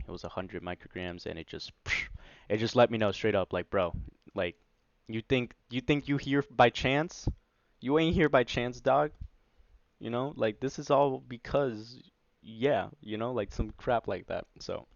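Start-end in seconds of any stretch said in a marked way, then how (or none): 3.7-12.0 louder, higher, casual bro talk; streetwise bro voice. Retold or imitated. Voicing what the LSD told him, loud casual bro. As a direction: talk like a buddy setting him straight.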